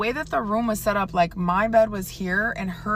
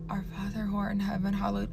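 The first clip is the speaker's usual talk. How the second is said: rushed, much softer prayer; frightened praying; 6 dB quieter, faster than usual. Retold or imitated. Siblings praying in bed to ward off the roommate, rushed frightened prayer. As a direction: gabble the prayer in fear.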